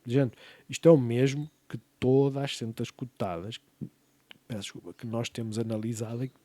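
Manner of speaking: talking through hiccups; hiccuping mid-sentence. Real, not acted. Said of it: "Estou com soluços agora".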